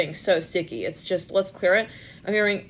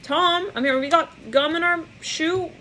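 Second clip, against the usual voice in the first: flustered news anchor; 8 semitones higher, slower than usual. Retold or imitated. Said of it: "news anchors are".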